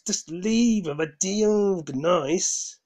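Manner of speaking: loud, high exasperated demands; angry shout. Real, not acted. Ranting at politicians to just leave, loud and exasperated. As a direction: bark the orders in frustration. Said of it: "This is why I get annoyed".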